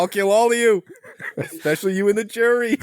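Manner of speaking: mock threat. Mock outburst threatening everyone.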